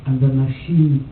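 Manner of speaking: measured poem reading with pauses between phrases. Acted. Poet reads Carol's factory fire poem to an audience, measured recital. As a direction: recite it line by line, letting each phrase stand.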